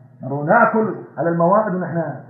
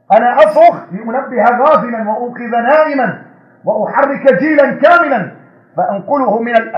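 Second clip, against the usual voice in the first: higher and louder fiery sermon; full-force preaching; 5 semitones higher, 4 dB louder than usual. Acted. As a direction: thunder it at the congregation.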